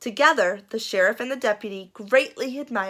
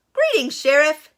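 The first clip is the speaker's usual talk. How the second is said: Kareem; 6 semitones higher, 6 dB louder than usual. Acted. Kareem greets sheriff.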